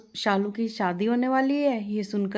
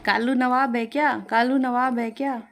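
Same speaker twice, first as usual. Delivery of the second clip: higher, louder parrot imitation of the complaint; parrot mimicking; 4 semitones higher, 4 dB louder than usual. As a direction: parrot aping the mother-in-law. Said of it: "तभी कालू कहता है". (सास की नकल करता तोता)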